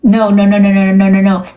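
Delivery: loud burst of no's in a mocked boss voice; Fruity Poodle voice. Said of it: "That's what his voice sounds like".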